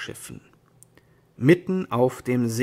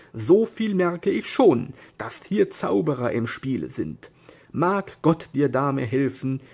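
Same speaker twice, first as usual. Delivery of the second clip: weary knight; 4 dB louder than usual. Acted. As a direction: speak like a defeated but proud knight.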